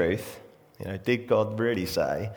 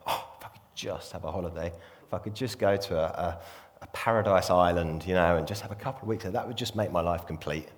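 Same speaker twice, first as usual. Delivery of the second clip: softer, dreamy, longing for escape; a lightly voiced wistful daydreamer, softer; 3 semitones lower, 6 dB quieter than usual. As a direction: sigh it like someone craving a break. Wishful holiday daydream quote.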